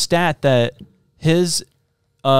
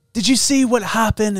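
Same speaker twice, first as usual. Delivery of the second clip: put-on South African accent; 9 semitones higher than usual. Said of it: "blonde hair guy is like".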